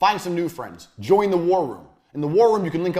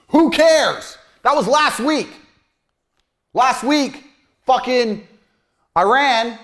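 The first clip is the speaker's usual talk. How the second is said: scornful outburst; 8 semitones higher, 7 dB louder, much slower than usual. Real, not acted. Scornful retort to giddy boast.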